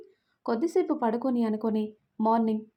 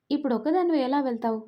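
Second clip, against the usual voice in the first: mildly firm insistence, a touch raised; a bit firm. Acted. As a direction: insist a little, no real shouting. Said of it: "కొంచెం గట్టిగా చెప్పేసరికి". (కొంచెం గట్టిగా, మెల్లగా ఒత్తిడితో)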